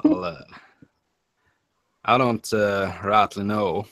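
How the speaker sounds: a hint of a Southern accent. Shown as a demonstration. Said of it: "Say your Southern accent".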